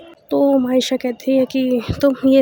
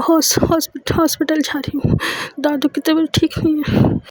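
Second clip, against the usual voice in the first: stammering, rising higher in distress; panicked stammer; 3 semitones higher than usual. Acted. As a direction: blurt it out, choking on words. Grandma ill, rushing to hospital.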